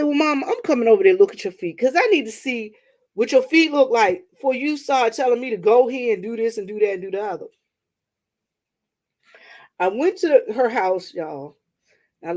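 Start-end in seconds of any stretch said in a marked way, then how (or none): 0.0-7.5 louder, emphatic daughter putting her foot down; firm insisting. Retold or imitated. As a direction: lay it down to mom. Retold firmly to her mother.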